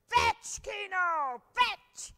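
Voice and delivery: high, loud excited call to the dog; cried out. Acted. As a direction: shout it for the dog to chase. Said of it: "cried Danny".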